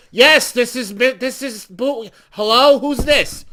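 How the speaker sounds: groggy answering. Retold or imitated.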